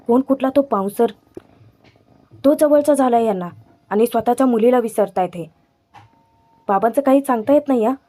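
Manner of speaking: indignant questions, lightly acted; mild retold anger. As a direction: imitate an upset daughter venting her hurt. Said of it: "Avni चिडते".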